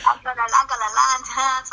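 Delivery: half-hearted southern accent attempt; botched southern accent. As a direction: stumble through a fake southern accent. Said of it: "I can't do an, an accent".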